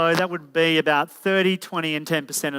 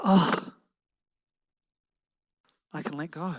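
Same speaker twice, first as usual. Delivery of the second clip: softly voiced inner relief; sigh, then settle into quiet reassurance; relieved woman letting go; 2 semitones lower, 3 dB quieter than usual. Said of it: "She can go".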